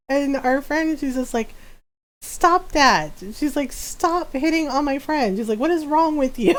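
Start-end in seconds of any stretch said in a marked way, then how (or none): 2.2-3.1 mock telling-off, pitched up; retold scolding. Friend scolds the flirting twins. 3.7-5.4 higher-pitched mock reprimand; retold scolding. Friend scolds the flirting twins. 5.6-6.5 mock indignation, pitched high; retold scolding. Friend scolds the flirting twins.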